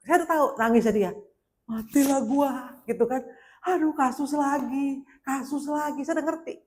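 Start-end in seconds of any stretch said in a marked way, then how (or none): 1.7-6.1 retold tearful dismay. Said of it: "Nangis di tempat".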